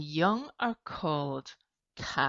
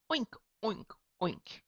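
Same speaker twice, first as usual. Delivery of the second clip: pig oink; 5 semitones higher, 5 dB quieter than usual. Shown as a demonstration. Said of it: "And I make the sound".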